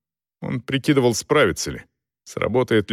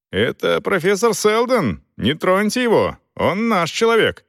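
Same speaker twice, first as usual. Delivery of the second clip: high excited shout; shouting from the crowd; 9 semitones higher than usual. A narrator's reading. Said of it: "Кто-то из толпы выкрикнул".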